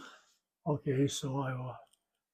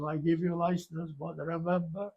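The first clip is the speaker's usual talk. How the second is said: a hint of a French accent, a bit higher; light imitated French accent; 4 semitones higher than usual. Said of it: "his French accent".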